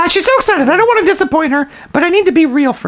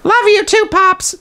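raised, light copy of her voice; mimicking the daughter; 5 semitones higher, slower than usual. Shown as a demonstration. Player copying Amanda's line, mimicking. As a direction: parrot her line back. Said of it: "don't do my voice".

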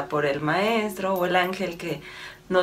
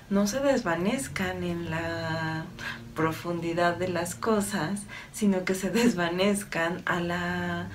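calm, slightly softened meditative delivery; channeled message. Acted. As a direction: deliver it evenly, as an unhurried spiritual message. (mensaje canalizado, en tono sereno y pausado)

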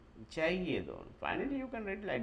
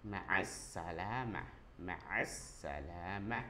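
slow, careful model; 5 semitones lower, 3 dB quieter, slower than usual. Shown as a demonstration. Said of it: "How to say bye bye".

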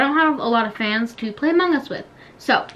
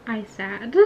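fake crying whimper; 12 dB quieter than usual. Dead again in the game.

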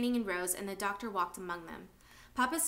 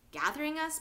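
frightened; 7 semitones higher, 3 dB louder than usual. Acted. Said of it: "He looked even more frightened".

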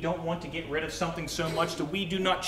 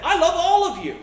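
much higher, loud shout of love; 13 semitones higher, 7 dB louder than usual. Shown as a demonstration. Pastor shouting his love at the congregation. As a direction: yell it out to everyone. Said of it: "You're just shouting at Nathan".

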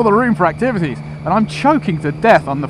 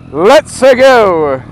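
Mario impression; 5 semitones higher, 7 dB louder, much slower than usual. Mario catchphrase while riding off.

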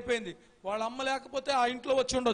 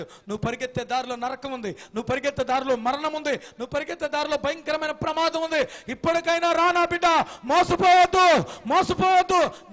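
building desperate cry; 5 semitones higher, 11 dB louder than usual. Acted. Jesus calls the lost child.

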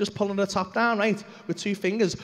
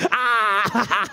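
drawn-out 'aah' breaking into laughter; mock yell dissolving into cackles; mock cry; 4 dB louder than usual. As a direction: let out a long open cry, then laugh. Imitates a reaction while laughing.

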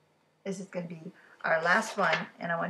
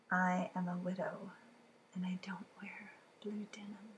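riddle reading. Acted. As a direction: read it like a creepy secret. Reads widow riddle in voice.

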